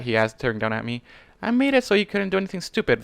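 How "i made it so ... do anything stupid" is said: huffed. A narrator's reading. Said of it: "the unicorn huffed".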